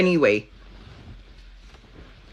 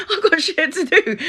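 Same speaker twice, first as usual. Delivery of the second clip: much higher, squeaky mock of the guy; mocking his reply; 3 dB louder than usual. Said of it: "And he's like".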